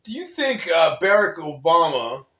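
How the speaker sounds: put-on Yugoslavian accent. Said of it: "Yugoslavian accent".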